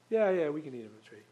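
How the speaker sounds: quick, careless yeah-yeah tossed off; offhand dismissal. Retold or imitated. Preacher mimicking Eve shrugging off God's gift. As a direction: wave it away like it doesn't matter.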